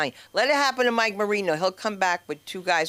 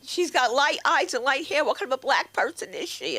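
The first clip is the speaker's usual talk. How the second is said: high, pushed sister-in-law voice; mock failed whisper; 7 semitones higher than usual. Sister-in-law wondering about a black person, failed whisper. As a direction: gossip openly in a would-be whisper. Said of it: "Can't whisper".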